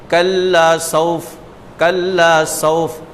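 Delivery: कल्ला सौफ recited slowly, without stretching the zabar; slow, careful Arabic recitation of कल्ला सौफ; Quran recitation drill. Shown as a demonstration. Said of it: "ज़बर पर ज़्यादा खींचना ही नहीं है".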